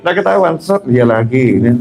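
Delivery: laughing. Real, not acted. Laughing about hidden overeating.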